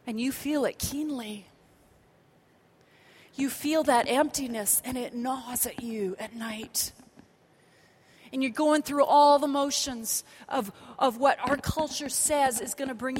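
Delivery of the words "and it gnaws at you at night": breathy whisper, slow. Acted. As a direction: lean in and whisper it. Preacher drops to whisper.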